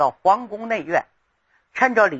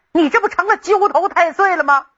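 exasperated scolding; 7 semitones higher than usual. Acted. Emperor scolding the troublemaking grandson.

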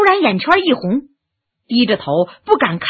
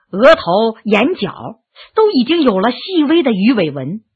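ordinary delivery

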